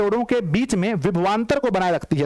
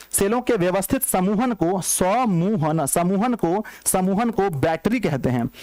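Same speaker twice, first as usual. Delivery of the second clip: slow dictation; slower than usual. Shown as a demonstration. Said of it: "क्या लिखते हैं".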